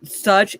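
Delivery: "such" said alone, punched up; stressed such. Shown as a demonstration. Streamer pointing out the all-caps word, punching "such". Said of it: "is all caps to emphasize".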